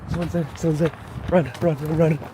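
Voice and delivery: panicked, urgent; spooked and running off; being chased. Real, not acted. Spots someone, flees.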